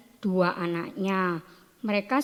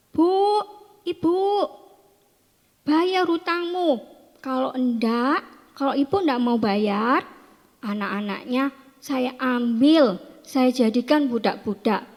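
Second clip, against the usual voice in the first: harsh debt collector; 3 semitones higher than usual. Acted. Debt collector threatening a widow over her children, mock shouting. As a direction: call out insistently like a storybook creditor. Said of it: "Dengan ngomong yang keras, teriak-teriak".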